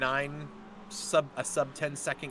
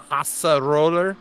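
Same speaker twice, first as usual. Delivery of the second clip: excited; 3 semitones higher, 11 dB louder than usual. Real, not acted. Excited race call.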